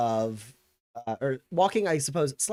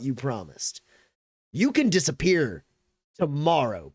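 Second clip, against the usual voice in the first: raised, forceful dressing-down; McGarrett; 4 semitones higher, 4 dB louder than usual. Acted. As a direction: colonel threatening a failing subordinate. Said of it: "And he goes".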